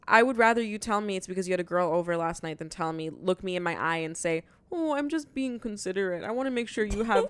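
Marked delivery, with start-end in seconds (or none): 4.7-7.2 higher-pitched, mocking imitation of sweet concern; mock considerate. Mimicking a man's excuse to a date, mock considerate.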